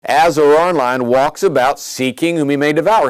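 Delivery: emphatic reading, stress on devour; scripture reading. Acted. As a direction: declaim the verse. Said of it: "It says".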